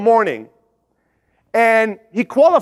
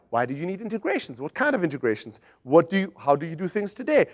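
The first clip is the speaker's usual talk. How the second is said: much softer, low questioning; calm probing questions; 4 semitones lower, 9 dB quieter than usual. Retold or imitated. Intern softly questioning a hesitant prospect. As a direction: quietly dig into their needs. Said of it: "And he's like".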